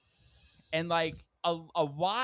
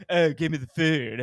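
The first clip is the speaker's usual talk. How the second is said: louder mock demand for food; hammed-up hungry yell; mock shout; 9 dB louder than usual. Hungry friends at the waiter, mock shout. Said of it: "they're like".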